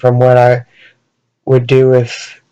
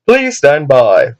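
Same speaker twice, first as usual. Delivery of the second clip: slow announcer voice; slower than usual. Acted. Announcer cuts in.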